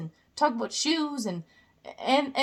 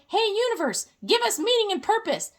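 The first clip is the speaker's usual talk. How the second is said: pleading humans; 5 semitones higher, faster than usual. Pretend. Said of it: "And we're like".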